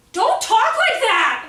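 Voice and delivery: loud, high, drawn-out plea; hammed-up exasperated yell; exasperated mock outburst. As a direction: cry out as if you can't bear that voice. Exasperated reaction to the sugary voice.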